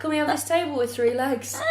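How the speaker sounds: put-on high, eager poor kid asking dad. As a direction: beg like a hopeful poor kid. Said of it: "I'm saying it like poor kids".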